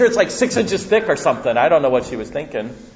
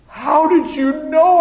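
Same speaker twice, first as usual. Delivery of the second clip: much higher, loud, slow squeak of shock; a caught kid's shocked cry; startled child; 14 semitones higher, 5 dB louder, slower than usual. Retold or imitated. Startled little boy.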